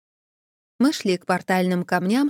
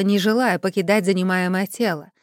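ordinary delivery

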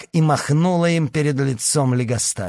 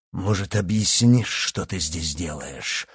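roaring; 6 semitones lower, 3 dB quieter than usual. Acted. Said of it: "взревел он".

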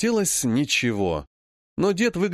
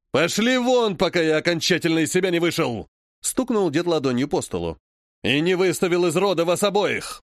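angry dismissal; 2 semitones higher than usual. Acted. Grandfather throws them out.

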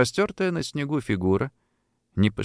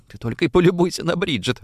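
squeezed out; 7 semitones higher, faster than usual. A narrator's reading. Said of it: "выдавил Колин".

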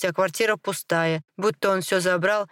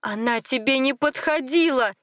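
high, heated retort; shouting; 7 semitones higher than usual. A narrator's reading. Wife argues about his former wife, shouting high. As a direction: cry it out, pitched well up. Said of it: "Елена тоже кричала теперь".

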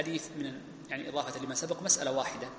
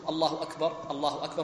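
two takbirs linked in one breath; joined takbir pair. Shown as a demonstration. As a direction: keep the pair connected. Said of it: "متصلة".

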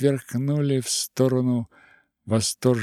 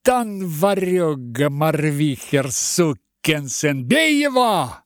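high, loud furious yell; an enraged man pointing out the culprit; booming howl; 5 semitones higher, 4 dB louder than usual. Acted. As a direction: roar it from above. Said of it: "взвыл в небесах".

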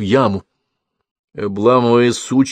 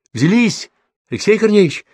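calling down; 12 semitones higher than usual. A narrator's reading. Calls down into pit.

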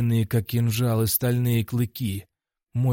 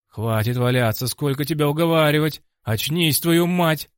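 exasperated shouting; 4 semitones higher, 4 dB louder than usual. Acted. Cornerman swears at the fallen fighter, building exasperated shout. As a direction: shout building higher and louder.

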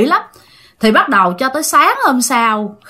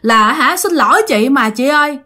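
lightly acted plea, slightly raised pitch; retold begging; 5 semitones higher than usual. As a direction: plead for forgiveness, somewhat understated. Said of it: "vừa lại mà vừa kêu". (giả giọng van xin nhẹ)

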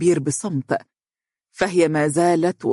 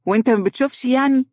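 higher, brisk indignant retort; 9 semitones higher, faster than usual. A narrator's reading. Mohra glaring at a man, indignant. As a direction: snap it out, mildly irritated. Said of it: "قائلة بحنق".

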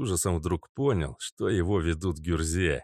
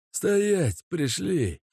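barked halt; 11 semitones higher, much slower than usual. Acted. Mazut stops him.

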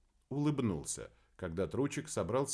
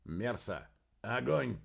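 barked order; slower than usual. Acted. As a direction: bark the order down the tube. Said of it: "рявкнул в переговорную трубу".

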